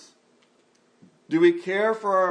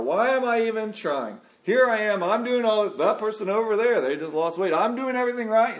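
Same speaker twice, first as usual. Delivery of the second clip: higher and louder indignant venting; pitched-up complaining rant; mock exasperation; 5 semitones higher, 3 dB louder than usual. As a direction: vent like you've given up on the diet. Dieter venting despair.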